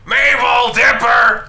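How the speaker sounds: shouted call from downstairs. Acted. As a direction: yell their names from afar. Grunkle Stan calls from downstairs.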